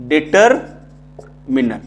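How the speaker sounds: डिटरमिनर drawn out in two parts with a long gap; slow, broken-up word. Shown as a demonstration. Teacher dictating a grammar term to pupils, slowly broken up. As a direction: split डिटरमिनर after डिटर, very slowly.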